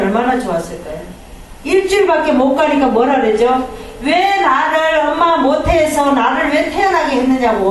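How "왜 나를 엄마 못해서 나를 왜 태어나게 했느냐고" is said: sing-song whining lament, imitating Job; half-chant the grumble like a plaintive moan; complaining Job. Preacher imitates Job grumbling at God, sing-song whine. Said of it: "원망을 하잖아요".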